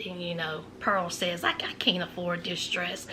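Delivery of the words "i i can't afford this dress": quiet, sheepish admission; hushed, embarrassed refusal; small embarrassed voice. Retold or imitated. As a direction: mumble it, a little ashamed. Pearl embarrassed at the price.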